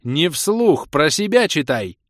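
sharp loud bark; barked order. A narrator's reading. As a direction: snap it out loud and fast. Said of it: "Пришлось поспешно рявкнуть".

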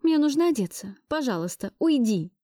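plead, then push him away; urgent plea. Acted. Backing away, asks him out. (настойчивая просьба уйти)

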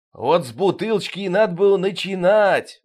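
sudden high exclamation; king exclaims in sudden excitement; exclaiming. A narrator's reading. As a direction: burst out at the sergeant. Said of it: "воскликнул король".

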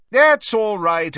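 slow, hearty, indulgent; jovial old professor. Acted. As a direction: soothe with a genial wave.

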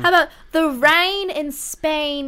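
slow, careful posh English elocution; British accent. Pretend. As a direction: recite it like a Cockney flower girl learning to speak properly. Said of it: "My Fair Lady".

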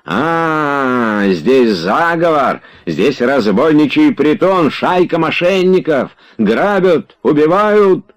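high cries climbing in pitch; hysterical alarm. A narrator's reading. Slapped Tarantyev cries conspiracy and murder, hysterical.

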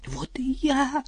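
breathy tearful whisper. Acted. Вдова повторяет Арсению со слезой, шёпотом. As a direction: whisper it, close to tears. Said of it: "С слезой в голосе".

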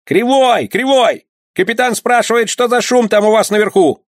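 shouting up from below, pitched very high. Acted. A head from below shouts to One-Eye. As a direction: yell up from the hatch. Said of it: "закричала".

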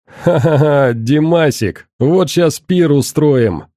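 rowdy boozy laugh and boast; drunk gloating looter. Acted. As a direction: crow it like a drunk thug.

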